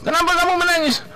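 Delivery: a father asks his crying son why he cries; father questioning. Retold or imitated. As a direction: act out a dad quizzing his crying son.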